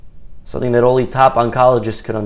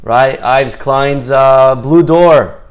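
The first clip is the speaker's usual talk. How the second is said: loud, halting guilty admission; tormented confession; 7 dB louder, slower than usual. Acted. Artist who can't live with himself, loud anguished confession. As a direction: confess it haltingly, drawing out the words. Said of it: "They can't live with themselves".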